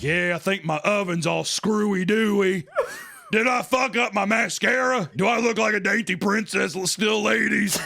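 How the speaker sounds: high, hammed-up mock voice; Dama 흉내. Voicing Dama's tearful makeup worry.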